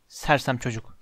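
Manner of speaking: low, soft grumble; grumbling. A narrator's reading. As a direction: grumble it under the breath. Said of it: "diye homurdandı". (alçak sesle homurdanarak)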